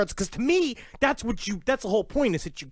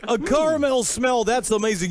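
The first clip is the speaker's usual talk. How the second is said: higher, amazed radio host; George Noory; 5 semitones higher, 3 dB louder than usual. Acted. Interviewer amazed by his guest's smell answer, higher mock wonder. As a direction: marvel at it with hammed-up wonder. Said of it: "a perfect George Noory impression".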